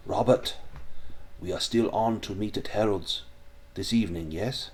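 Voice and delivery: lightly voiced German accent; slight German accent. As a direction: speak with a bit of a German accent. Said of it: "a bit of a German accent".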